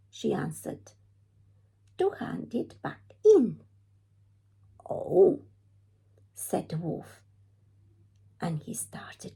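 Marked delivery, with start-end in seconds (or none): 2.0-3.6 Red's eager voice, higher and louder; high, loud girl voice. Acted. Red telling the wolf where she's going, higher and louder. 4.9-5.4 high, loud drawn-out oh; a loud, high knowing oh; wolf's sly oh. Acted. Wolf hearing Red's plan, a high loud sly oh.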